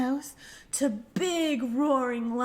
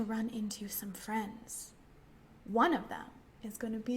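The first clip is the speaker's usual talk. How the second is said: whisper; 3 semitones lower, 6 dB quieter than usual. Acted. Teasing secret to children.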